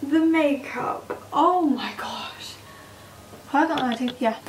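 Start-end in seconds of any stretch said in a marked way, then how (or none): 1.3-2.6 awed whisper. Real, not acted. Awed by own makeup.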